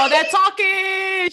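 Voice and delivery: high, slow laughing shout; loud laughing echo. Real, not acted. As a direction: crack up while repeating it.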